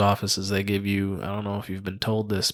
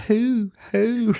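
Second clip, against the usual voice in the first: owl hoot; 11 semitones higher than usual. Retold or imitated. Wife reading to the boys, a high repeated owl hoot. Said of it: "she goes".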